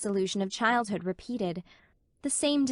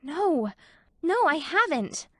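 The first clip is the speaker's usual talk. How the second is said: gasped; 7 semitones higher, 3 dB louder, slower than usual. A narrator's reading. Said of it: "gasped poor Anne".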